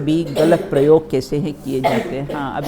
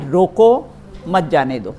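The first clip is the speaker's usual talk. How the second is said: रोको loud and rising, brief break, then मत जाने दो; small gap between रोको and मत; short pause after रोको; 4 dB louder than usual. Shown as a demonstration. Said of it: "एक बात, और फिर".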